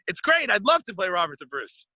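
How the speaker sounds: eager reply breaking into a laugh. Retold or imitated. Actor retelling his keen answer to the director, laughing. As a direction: chuckle through the eager yes.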